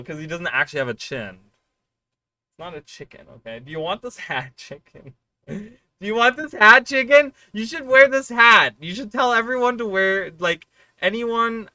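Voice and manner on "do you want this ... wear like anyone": high, loud singsong sales pitch; playful pitch. Pretend. Streamer pushing the turkey hat on Chicken, singsong. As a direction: sell the hat like a game-show host.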